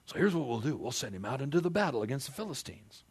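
conniving Saul. Retold or imitated. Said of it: "Saul the conniver".

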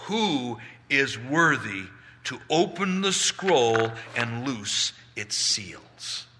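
lightly voiced angel, slow and stretched out; powerful angel's question. Angel asks all creation one question, slow and weighty. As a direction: ask it slowly, with weight on each phrase. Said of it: "he asks all of creation".

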